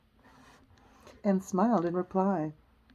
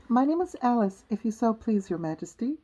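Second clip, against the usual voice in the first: higher, politely deferential answer; polite Alice; 4 semitones higher than usual. Acted. Alice answering the Queen, higher and polite. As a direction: pitch it up and answer courteously. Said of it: "Alice replied politely".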